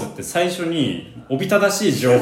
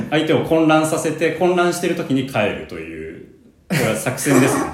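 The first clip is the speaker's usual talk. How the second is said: laughing; 4 semitones higher than usual. Real, not acted. Explaining his silly tactic.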